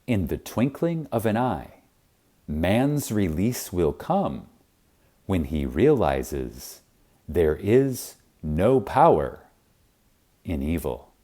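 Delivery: slow and soft, letting each phrase settle. Shown as a demonstration. Reader repeats the promise softly and slowly to the listener. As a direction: repeat it gently, slowing down.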